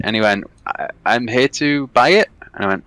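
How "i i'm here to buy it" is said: lightly put-on Polish voice; imitated Polish accent. Polish buyer explaining himself to the homeowner, imitated Polish accent. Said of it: "Very Polish".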